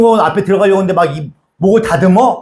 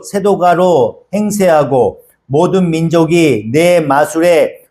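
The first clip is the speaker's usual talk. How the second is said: scripture reading. Acted. Pastor reading scripture to the congregation, measured. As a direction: read the verses with gravity. Reads Revelation passage aloud.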